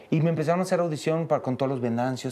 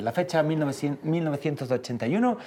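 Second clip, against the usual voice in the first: Spanish accent; 2 semitones lower than usual. Shown as a demonstration. Performing show lines for friends on request, Spanish accent. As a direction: recite it with a Castilian Spanish accent. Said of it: "con el acento".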